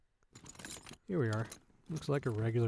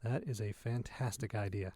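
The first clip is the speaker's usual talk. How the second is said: whisper; 3 semitones lower, 8 dB quieter than usual. Acted. Sneaking away from rogue AI.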